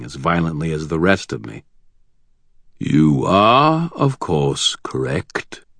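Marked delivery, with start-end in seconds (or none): 2.8-5.7 basso rumble. Acted. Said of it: "said a basso rumble of a voice".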